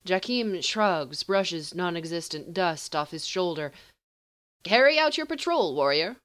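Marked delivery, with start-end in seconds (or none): 4.6-6.2 much higher, louder dismissive order; haughty sorcerer. Acted. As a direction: send him off coldly. Sorcerer dismisses him, high.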